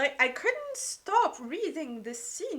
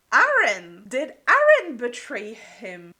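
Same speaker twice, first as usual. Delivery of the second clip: shocked gasp; 11 dB louder than usual. Real, not acted. Fan reacting to plot twist.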